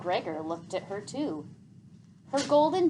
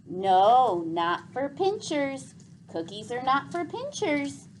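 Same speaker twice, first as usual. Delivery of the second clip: firm; 5 semitones higher, 5 dB louder than usual. A narrator's reading. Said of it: "said Gregor firmly".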